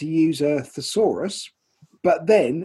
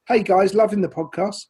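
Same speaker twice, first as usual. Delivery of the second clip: lightly put-on Australian accent; amateur go at an Australian accent; Australian accent attempt; 2 semitones higher than usual. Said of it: "you have to do it in his accent".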